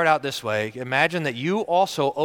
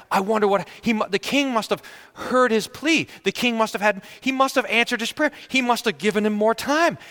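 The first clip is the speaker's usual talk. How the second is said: hopeful guess; 6 semitones higher than usual. Acted. Guessing the king's mercy.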